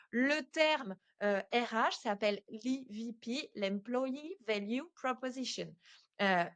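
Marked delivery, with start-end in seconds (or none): 3.5-5.7 unforced French accent on English words. Real, not acted. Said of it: "mon accent anglais. J'avoue, j'ai pas fait d'effort". (anglais avec accent français, sans effort)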